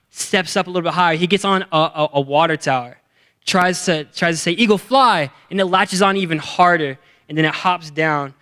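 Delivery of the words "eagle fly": raised-pitch mock call to fly; acted urging cry. Young man trying to launch the eagle, mock urging cry. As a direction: urge the bird off, pitched up.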